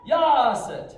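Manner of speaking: high, explosive counting yell; drill command shout. Real, not acted. Instructor calling kicks for students, shouting. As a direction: bellow the count to drive the class.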